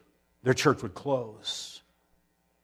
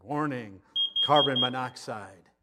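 smoke alarm voice. Pretend. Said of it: "No, that's not real. I pressed the button".

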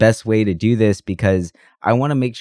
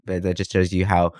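talking while sick. Real, not acted. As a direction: voice worn from a cold. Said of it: "I'm also sick".

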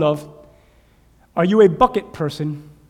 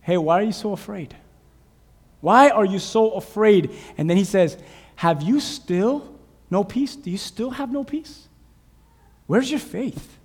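Jesus asks gently; 3 semitones higher than usual. Acted. Jesus asking disciples why they fear, gentle. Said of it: "what Mark says".

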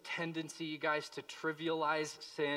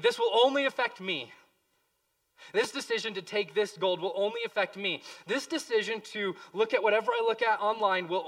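Achan's self-justifying thoughts; 4 semitones higher, 8 dB louder than usual. Retold or imitated. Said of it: "he's thinking".

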